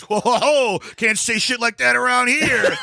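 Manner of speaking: very high, laughing mock alarm; imitating a scandalized kid. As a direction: squeal it like a shocked teen, cracking up. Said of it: "the guy goes".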